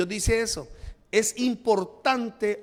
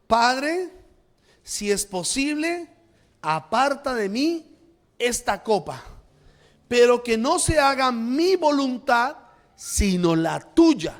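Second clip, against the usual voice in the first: louder, slow and earnest plea to the Father; Jesus praying aloud; 4 semitones higher, 5 dB louder, slower than usual. Retold or imitated. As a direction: plead it out slowly, loud and fervent. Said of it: "Jesús ora y dice". (súplica fervorosa, lenta y en voz alta)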